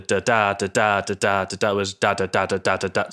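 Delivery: "da-da" repeated, light then heavy beat, swung; swung iambic rhythm. Shown as a demonstration. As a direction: chant "da-da" with a lilting swing. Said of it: "iambs are more sort of swung".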